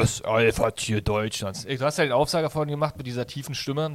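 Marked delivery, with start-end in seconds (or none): 0.0-1.6 low, slow announcer hype; with more energy. Shown as a demonstration. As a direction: drag it out like a ring announcer. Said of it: "mit mehr Energie sagen".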